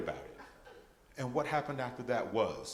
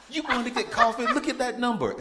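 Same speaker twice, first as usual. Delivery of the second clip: much higher, louder, laughing through it; laughing disbelief; 13 semitones higher, 10 dB louder than usual. Retold or imitated. Panicking son begging the tax lady to look, laughing. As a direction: plead with her through laughter.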